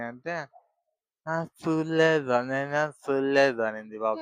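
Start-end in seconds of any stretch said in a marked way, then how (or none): 1.3-3.6 slow, half-asleep denial; dazed mumble. Acted. Sleepy child answering the father's question, slow and dazed. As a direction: drag it out groggily as if just woken. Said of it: "తిక్క తిక్కగా మాట్లాడింది".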